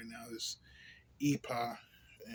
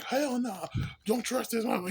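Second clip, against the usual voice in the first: disgusted woman voice; 10 semitones higher, 4 dB louder than usual. Retold or imitated. Women not attracted to him.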